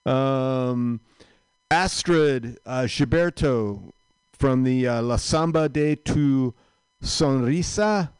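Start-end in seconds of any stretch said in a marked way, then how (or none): 5.0-8.1 Sonrisa with a trilled Spanish r; rolled r. Shown as a demonstration. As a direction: roll the r in Sonrisa hard. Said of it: "I'm rolling my R's".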